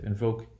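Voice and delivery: "invoke" softly, with long "oh". Shown as a demonstration. Teacher drilling the example, long value. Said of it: "That long value will become short".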